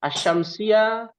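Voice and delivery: Asyamsia drawn out, no l, the sy held long; silent lam, doubled sy. Shown as a demonstration. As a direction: slowly sound out Asyamsia with a doubled sy. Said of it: "Alif lamnya tidak dibaca dan ditambahkan tasdid".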